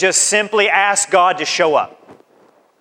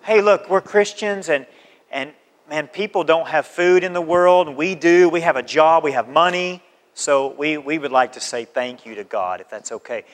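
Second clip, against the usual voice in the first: casual invite demo; 4 semitones lower than usual. Shown as a demonstration. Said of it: "you have to explain it to people".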